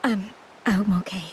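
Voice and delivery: weak cough. Acted. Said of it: "I'm just a little tired".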